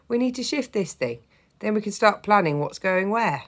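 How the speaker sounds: a hint of a hearty Yorkshire grandad; cheerful grandad voice. Grandad's lines.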